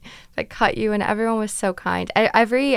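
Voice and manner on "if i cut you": mock polite whisper. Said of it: "having to ask everyone in every line".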